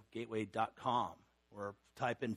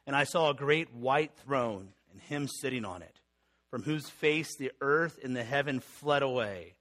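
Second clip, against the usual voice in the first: measured, solemn Bible reading to the congregation; scripture reading. Acted. Preacher reading Revelation to his congregation, solemn scripture reading.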